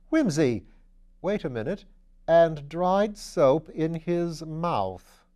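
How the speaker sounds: slow, emphatic discovery; dawning realization. A narrator's reading. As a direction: spell out the clue as it dawns. Sudden realization of the clue.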